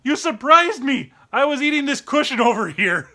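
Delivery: mock surprise. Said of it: "and I'm like".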